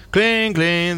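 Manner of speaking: sensor clink. Retold or imitated. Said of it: "hace el sensor".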